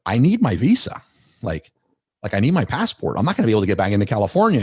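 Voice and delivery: mildly acted urgent protest; insistent retold plea. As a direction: plead your case, stressing what you need. Retells pleading for passport from captors.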